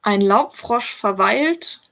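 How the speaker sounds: slow, measured comic German poem; deliberate verse recital with suspended line endings. Shown as a demonstration. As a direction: recite it line by line, pausing after each phrase. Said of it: "I can read you a poem".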